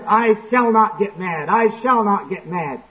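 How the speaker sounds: slow, measured self-talk; lightly acted man insisting to himself; insistent resolve. Man with a temper vowing to himself, slow and insistent. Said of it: "when somebody starts complaining, like the guy says".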